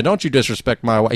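imitated Southern husband; Southern accent. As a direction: lightly put on a Southern accent. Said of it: "He did have a Southern accent".

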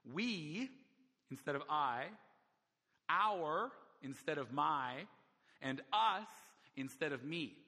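"We", "our" and "us" each punched, "our" drawn out very slowly; stress on pronouns. Shown as a demonstration. Preacher quoting Peterson, leaning hard on "We", "our" and "us". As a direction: hit each pronoun, then drop the "instead of". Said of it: "the gospel makes is grammatical".

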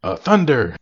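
calling out to the runaway horse, mock yell; imitating a yell. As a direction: call the horse like Zorro, half-joking. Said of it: "he's yelling at the horse".

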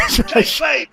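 shouting. Real, not acted. Shouts to stop the story.

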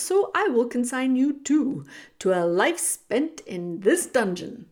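loud, deliberate villainous rat; theatrical rat villain, relishing each word; menacing rat. Acted. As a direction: pronounce a grim sentence on a prisoner. Rat pronounces the princess's fate.

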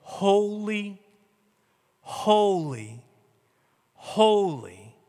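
drawn-out, measured proclamation; seraphim's call. Acted. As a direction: intone each word with long pauses. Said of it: "over and over and over to saying".

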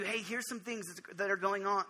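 soft, gentle aside, voiced; quietly confiding, as God gently correcting; gently telling. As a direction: drop the volume and break it to them kindly. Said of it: "he will whisper and he will gently tell you".

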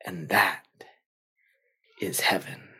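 soft, low, gentle revelation; hushed wise monk. Acted. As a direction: let it land quietly and tenderly. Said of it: "And the monk says".

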